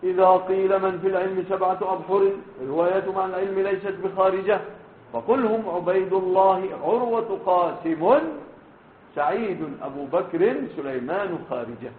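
measured, chanted verse recital; a teacher reciting verse from memory to his students; poem recitation. Acted. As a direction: declaim the lines like a classical poem. Recites verse of the seven jurists.

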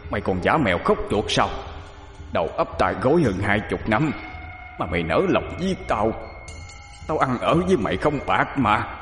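strained, held-back wail of accusation; anguished outcry. A narrator's reading. Murdered husband accusing his wife, anguished bitter lament. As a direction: reproach her in a pained, altered voice, without real volume. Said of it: "đột nhiên lại gào lên".

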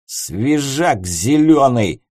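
put-on slow drunken jeering; belligerent drunk. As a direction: taunt him, drunk and rowdy. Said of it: "снова барагозил Воронцов".

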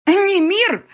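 very high, loud shriek of a name. Acted. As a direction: shriek for her husband. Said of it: "продолжала верещать и Дема".

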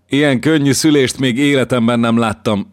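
high, loud, moved to tears; a hint of tearful joy; fighting tears. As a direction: hold back happy tears. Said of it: "sóhajtotta könnyeivel küszködve".

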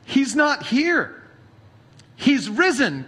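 measured, solemn Bible reading; scripture reading. Acted. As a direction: read the Gospel to the congregation. Reads scripture passage aloud.

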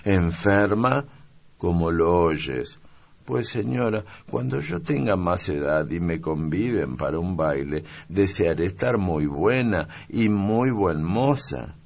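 a caring little maid fussing over her mistress; young maid. Acted. Maid, surprised then dreaming. (criada niña, voz más aguda y solícita)

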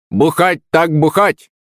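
high, slow parrot squawk; screeching parrot. A narrator's reading. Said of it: "заверещал Рэмбо с ближайшего дерева". (верещащий попугай)

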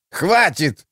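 understated indignant squeal; mild squeal. A narrator's reading. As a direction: squeal it as a sharp cutoff, not full volume. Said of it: "взвизгнула Оникс".

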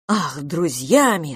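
slow, indignant echo of the word; outburst. Acted. Tony explodes at Edith over being just friends, indignant. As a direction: spit the word back at her. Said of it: "снова взорвался Тони".

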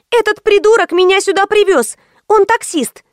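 high squeal. A narrator's reading. Karina accuses the driver to the boss, high squeal. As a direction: shriek it high in outrage. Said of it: "взвизгнула Карина".

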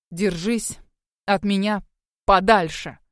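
a sudden loud bark on подальше. A narrator's reading. Werewolf driving the girl away with a bark. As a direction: snap it at her to drive her back. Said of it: "рявкнул он".

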